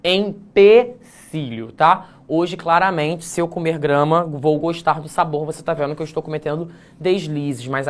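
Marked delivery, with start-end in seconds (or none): 0.0-1.7 "Empecilho" stretched very slowly and a bit louder; drawn-out Empecilho. Shown as a demonstration. Teacher drilling the word for students, very slow and emphatic. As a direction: lean into "Empecilho" slowly, syllable by syllable. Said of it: "porque vira quase sobrancelha".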